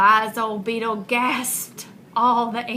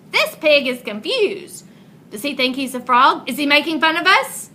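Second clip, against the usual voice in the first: indignant frogs; 4 semitones higher, 5 dB louder than usual. Acted. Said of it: "cried the frogs".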